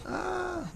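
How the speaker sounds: soft high drawn-out ah; a slow hushed ah of wonder; awed gasp. Shown as a demonstration. Teacher showing big eyes with a soft high ah. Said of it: "like that, right?".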